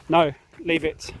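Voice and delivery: slow loud no; slow firm warning to the dog; firm command. Real, not acted. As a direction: draw out a stern no. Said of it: "when I'm yelling that I actually mean it".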